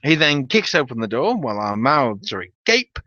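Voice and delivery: ordinary delivery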